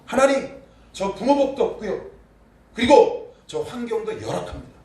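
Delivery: high, loud desperate plea; crying out prayer. Shown as a demonstration. Preacher voicing a young believer crying out in prayer, loud pleading. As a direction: lay your complaint before God, calling out. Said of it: "조용히 기도한 게 아니라".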